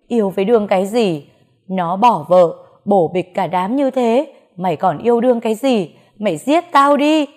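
loud, rising anguished rebuke; mother wails at her daughter over the man, distraught. Acted.

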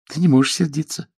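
put-on a girl insisting her father can't be angry; daughter protesting. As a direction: daughter coaxing father out of anger. Daughter voiced in story.

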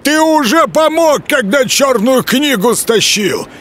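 high, accusing wood spirit; accusing forest spirit. A narrator's reading. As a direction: throw the accusation. Leshy voiced by narrator.

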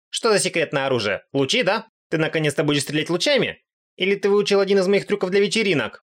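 eager goddess. Acted. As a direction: pester him excitedly about lasers. Goddess Aqua's eager questions. (восторженная богиня, голос повыше)

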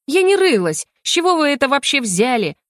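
high-pitched protest; indignant objection. A narrator's reading. Heroine denies rummaging in his things, indignant objection. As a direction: deny the accusation hotly. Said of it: "возразила я".

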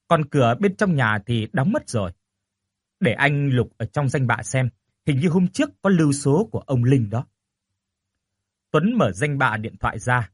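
ordinary delivery, nothing marked

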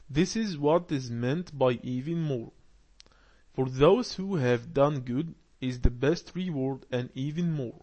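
slow, careful reading aloud to a class; slow text reading. Acted. Teacher reads the lesson text aloud slowly. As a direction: read each phrase slowly for learners.

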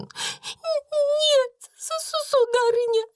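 очень высоко, со всхлипами и запинками; лепетать сквозь слёзы; испуганная служанка Бекки. A narrator's reading. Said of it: "возразила Бекки, делая книксон". (плачущая Бекки оправдывается)

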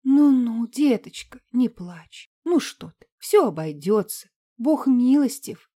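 лёгкий старушечий голос, утешая; успокой как добрая старушка; старая уборщица. Acted. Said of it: "сказала старая скрюченная уборщица". (уборщица утешает плачущую Марину, по-старушечьи)

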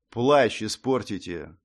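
slow, lifeless monotone; indifferent monotone. Acted. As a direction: say it with no feeling at all. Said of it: "всё тем же равнодушным голосом изрёк незнакомец".

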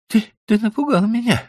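high, shaky frightened stammer; shaken. A narrator's reading. Wife shaken after the sudden stop, frightened stammer. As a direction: get the words out barely. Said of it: "едва проговорила Билли".

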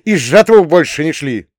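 high, loud angry bark; girl barking, high and loud. Acted. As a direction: spit the order at him. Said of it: "рявкнула она".

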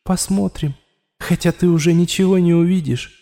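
a bitter voice inside his skull; inner voice warning. A narrator's reading. The voice in Raul's head warns him of death, bitter.

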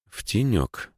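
slow, musing repeat; thoughtful. Acted. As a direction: turn the words over thoughtfully. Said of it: "задумчиво повторил Игорь Романович".

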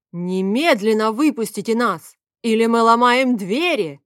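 loud furious demand to be let out; angry yell. A narrator's reading. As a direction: yell it at the locked door. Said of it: "послышался вопль Фавия".

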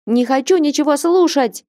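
put-on teen shouting. A narrator's reading. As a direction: yell it at your mother. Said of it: "закричал подросток".

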